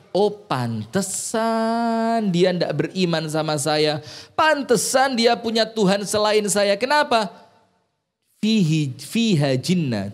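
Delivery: Pharaoh's scorn. Acted. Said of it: "Firaun bilang".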